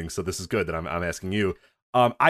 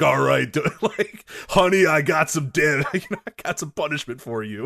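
mock seductive Randy; 4 semitones higher than usual. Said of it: "a Randy Orton R P account going".

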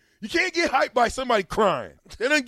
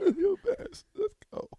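mock whimpering plea; 10 semitones higher, 7 dB quieter than usual. Mocking player's teary speech.

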